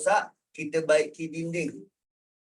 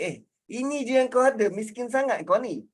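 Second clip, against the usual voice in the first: higher-pitched mocking jeer; 4 semitones higher, faster than usual. Shown as a demonstration. Mocking Kak Liza over how little she has. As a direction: sneer it as an acted taunt. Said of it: "dalam bentuk nak mengejek".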